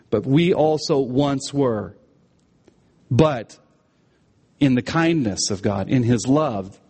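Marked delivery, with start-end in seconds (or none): 0.1-2.0 slow line with weight on "we", lower pitch; emphatic "we". Shown as a demonstration. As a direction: lean slowly on "we". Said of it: "there is emphatic".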